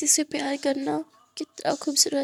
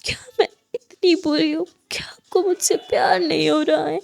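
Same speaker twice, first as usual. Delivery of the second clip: loud, tearful, pleading questions; desperate crying why; crying anguish; 2 semitones higher, 5 dB louder than usual. Acted. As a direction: ask why through sobs.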